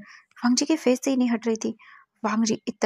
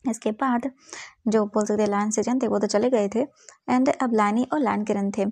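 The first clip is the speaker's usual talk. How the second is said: ordinary delivery, nothing marked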